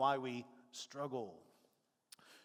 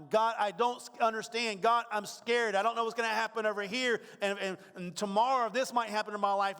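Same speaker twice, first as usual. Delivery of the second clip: anxious plea; 3 semitones higher than usual. Retold or imitated. Worried believer praying.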